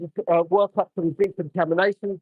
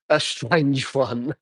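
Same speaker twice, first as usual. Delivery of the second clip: laughing mid-word; much slower than usual. Real, not acted. Reading a funny comment.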